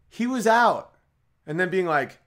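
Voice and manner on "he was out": high, loud mock umpire call; mock confident call. Mock call of a clueless fan on a cricket field. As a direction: bellow it like you know the game. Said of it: "on a cricket field and be like".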